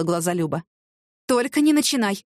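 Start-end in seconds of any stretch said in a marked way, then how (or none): 1.3-2.2 gasping dismay. Acted. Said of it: "охнула Вера Ивановна".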